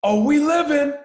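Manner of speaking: high, loud mock taunt; retold taunting yell. A bench player taunting LeBron, a high loud yell. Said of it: "yells at Bron".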